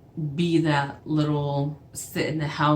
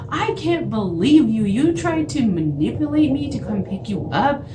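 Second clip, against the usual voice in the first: higher, louder indignant outburst; outraged accusation, voice raised; retold anger; 6 semitones higher, 3 dB louder than usual. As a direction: re-enact telling off someone who tricked you. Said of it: "I was just so mad".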